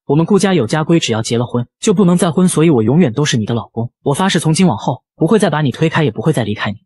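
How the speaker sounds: gentle voice. Acted. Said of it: "柔声道".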